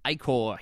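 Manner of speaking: Ichor as "EYE-core"; checked pronunciation. Shown as a demonstration. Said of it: "see if I'm s-, saying it right".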